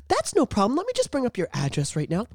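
lightly put-on helpful agent, high start; polite phone agent. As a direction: slip back into customer-service politeness. Acting polite agent after unmuting.

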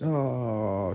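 quiet, drawn-out "ohhh" sliding away; a long soft moan as if sinking; slow-motion fall, voiced softly. Mimics falling into darkness.

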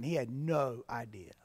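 soft whispered aside. Real, not acted. Pastor hushing the point to listeners, whispered. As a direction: drop to a hush for effect.

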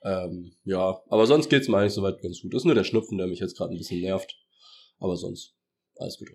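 talking with a stuffy nose; blocked nose from a cold. Real, not acted. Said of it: "Man hört es ja wahrscheinlich auch ein bisschen".

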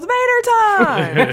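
slow, high, loud drawn-out yell; excited shout. Retold or imitated. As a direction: belt out the name slow and high. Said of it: "And she goes".

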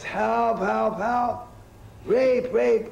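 put-on high, loud cries of help from an old woman; yelling for help. Old woman yelling to the street for help, high and loud. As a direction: shout it out like a panicked old lady on the street. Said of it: "and she yells".

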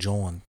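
"John" met een Philadelphia-klinker, zacht ingezet; Philly John. Shown as a demonstration. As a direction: zeg "John" als iemand uit Philadelphia. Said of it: "it's like that little accent".

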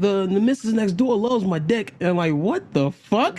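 imitating a New Zealand homeowner; New Zealand accent. Retelling a video's New Zealand dude. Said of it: "this New Zealand dude talking about".

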